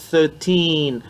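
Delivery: Thirteen with the tongue between the teeth; th sound. Shown as a demonstration. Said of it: "la langue entre les dents". (Thirteen, langue entre les dents)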